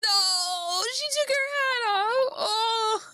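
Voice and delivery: overwhelmed, near tears with delight; real tearful squeal; real emotional outburst. Real, not acted. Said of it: "I'm fucking losing it".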